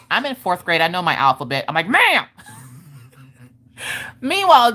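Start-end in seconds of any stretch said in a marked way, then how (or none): 0.1-1.6 put-on mildly indignant kid retort; super sassy. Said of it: "She being super sassy". 1.9-2.2 high-pitched mock indignation; shocked rebuke. Mother rebukes her sassy kid.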